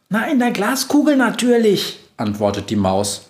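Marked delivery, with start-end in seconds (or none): 0.1-2.0 high proud mouse voice. Acted. Mouse boasting to the witch, high and proud. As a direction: boast like a tiny reporter.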